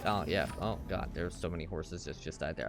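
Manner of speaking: low, mellow stoner mumble. Retold or imitated. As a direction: trail off like a dazed stoner. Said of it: "making everybody sound like a stoner".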